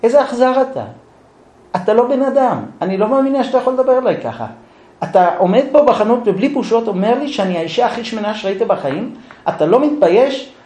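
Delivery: wife yelling at husband. Acted. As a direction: play the offended wife, pitch up and fast. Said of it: "מתחילה לצעוק עליו".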